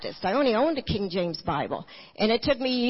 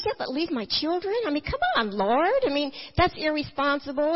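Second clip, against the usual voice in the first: higher, indignant pleading with God; arguing with the Lord; 6 semitones higher than usual. Retold or imitated. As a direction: protest to God like a stubborn child. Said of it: "I started arguing with the Lord".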